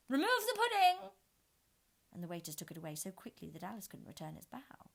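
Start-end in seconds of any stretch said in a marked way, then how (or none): 0.1-1.1 high, loud imperious shout; commanding order. A narrator's reading. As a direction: snap the order out. Red Queen orders waiters.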